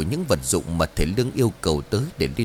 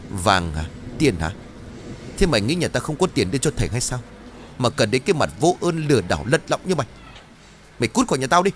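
sneer, then order her out; scornful anger; 2 semitones higher than usual. Acted. Chín scorning Trang's offer of gold, angry.

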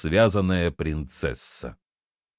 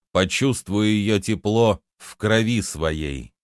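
emphatic incantation. A narrator's reading. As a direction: pronounce the spell deliberately, word by word. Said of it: "произнёс с ударением".

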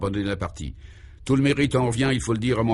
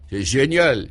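exclaiming; 3 semitones higher, 4 dB louder, slower than usual. Acted. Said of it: "s'exclama Guy".

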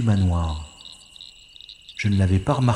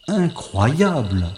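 slow, higher, drawn-out mock amazement; ironic disbelief; 5 semitones higher, much slower than usual. Spy scoffs at the rusty padlock guarding the manor, ironic. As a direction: savor how absurd the old padlock is.

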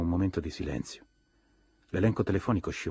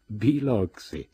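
slow, drawn-out astonished cry of the name, louder and higher; stunned exclamation; 5 semitones higher, 6 dB louder, much slower than usual. A narrator's reading. Tom and the narrator stunned at the lie, exclaiming. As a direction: let the name burst out in disbelief.

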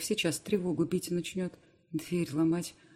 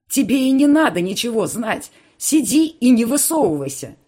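raging yell; 8 semitones higher, 14 dB louder than usual. Acted. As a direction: roar at her in fury. Uncle screaming at Irma.

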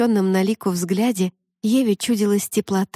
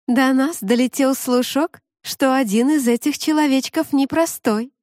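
mermaid voice; 6 semitones higher than usual. Acted. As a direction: voice the mermaid sweet and sly.

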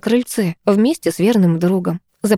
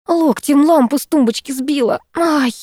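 irritated, raised pitch; angry; 8 semitones higher than usual. Acted. Аня, uncovering the lamp, speaks crossly to her friend. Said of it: "рассерженно проговорила Аня".

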